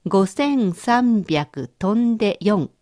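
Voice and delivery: each number said very slowly; slow dictation. Shown as a demonstration. Teacher reading a number slowly for the learner to translate. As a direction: read it out slowly so they can catch it. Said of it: "私の言う日本語を中国語にしてください".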